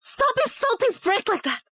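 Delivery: high, tearful shout; crying shout. Acted. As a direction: scream it through tears.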